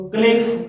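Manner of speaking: क्लिफ said with a sounded K at the start; K pronounced. Shown as a demonstration. Teacher showing how knife was once read, क्लिफ with K sounded. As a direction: open क्लिफ on a hard "k" before the next consonant. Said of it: "के शब्द का उच्चारण किया जाता था".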